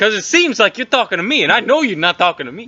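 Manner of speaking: high, insistent weasel challenge; weaselly voice. Acted. Weasel squaring up to a player, tough weaselly voice. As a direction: needle them like a tough-guy weasel. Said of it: "It's a weaselly voice".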